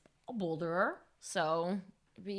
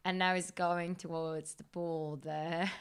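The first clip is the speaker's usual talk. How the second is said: slow, lightly put-on English accent, commentator style; English accent commentary; slower than usual. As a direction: play an English sports commentator with a hint of the accent, slowly. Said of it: "could you commentate Alexei in English accent".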